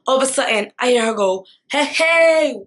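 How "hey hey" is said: put-on loud, high taunting "hey, hey, boy"; mocking laughing taunt; mocking laugh-call. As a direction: jeer at him like she's laughing. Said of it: "Big, heavy laughter".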